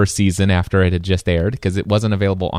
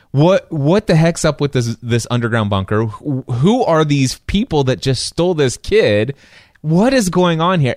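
mock bewildered; 3 semitones higher than usual. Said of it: "And I'm like".

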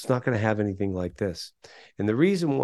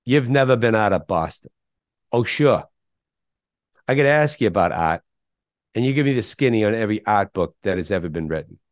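lightly imitating a Boston accent; a touch of Robin Williams in Boston; 4 dB louder than usual. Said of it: "Robin Williams' best Boston accent".

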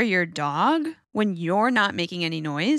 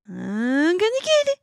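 higher, louder excited taunt; playful taunt; 11 semitones higher, 4 dB louder than usual. Shown as a demonstration. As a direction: build the tease up, louder. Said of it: "I usually say stuff like".

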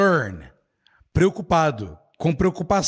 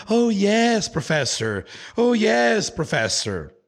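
startled student; 3 semitones higher than usual. Acted. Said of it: "Aí ela fala".

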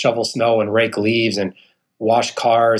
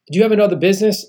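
higher, polite female phone agent; a higher voice for the woman calling about his credit; bank lady voice; 7 semitones higher, much faster than usual. Retold or imitated. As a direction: play the bank clerk asking questions. Bank woman questions him on phone.

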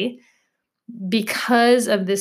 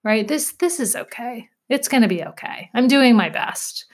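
gentle self-talk; 2 semitones higher than usual. Shown as a demonstration. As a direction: say it kindly like comforting a friend. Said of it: "insert something nice".

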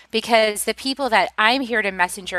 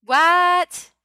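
high, loud stunned what; shocked what; 9 semitones higher, 4 dB louder than usual. Retold or imitated. Retelling the teacher's words, a stunned high what. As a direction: blurt it out in disbelief. Mock disbelief repeated.

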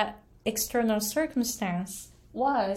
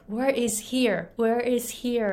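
lightly voiced confused newcomer asking the way; imitating broken English; 3 semitones higher than usual. Aiko newly arrived in the US, mimicking her early broken English. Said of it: "I was saying, like".

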